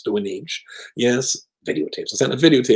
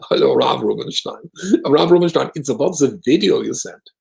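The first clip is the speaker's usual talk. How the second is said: raised, louder imitation of the caller; mock Swiss organizer; 4 semitones higher, 4 dB louder than usual. Organizer calling the rabbi from Zurich, stiff mock voice. Mark on the phone.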